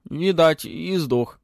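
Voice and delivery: high, loud dragon pronouncement; mock-wise little dragon. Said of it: "глубокомысленно озвучил". (голосок дракончика)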